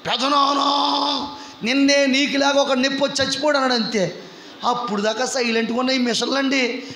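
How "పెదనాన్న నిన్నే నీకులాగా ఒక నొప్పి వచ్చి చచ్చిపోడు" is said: mock big bass voice. Nephew bursting into ICU to his uncle, mock big voice. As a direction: lightly imitate a booming, tactless nephew. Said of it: "పెద్ద బేస్ voice చేసుకుని".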